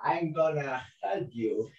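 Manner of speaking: hushed voice in the head; sinister ego. Acted. Ego first appears to the lonely baby, hushed. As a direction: speak very softly, as an insinuating inner voice. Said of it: "And the ego appears".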